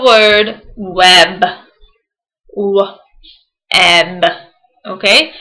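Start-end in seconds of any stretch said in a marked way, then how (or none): 0.0-4.2 slow. Shown as a demonstration. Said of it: "Say it slowly so you can hear the sounds".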